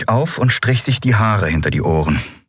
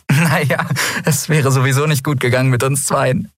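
said with a light laugh, higher pitched; 7 semitones higher than usual. A narrator's reading. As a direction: toss it off with a little laugh. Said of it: "sagte sie lachend". (leicht lachend gesprochen)

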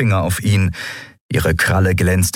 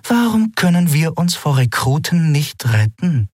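deceptively calm; 9 semitones higher than usual. Acted. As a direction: lecture him calmly like a trap. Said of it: "in einem trügerisch ruhigen Ton". (trügerisch ruhig, lauernd fragend)

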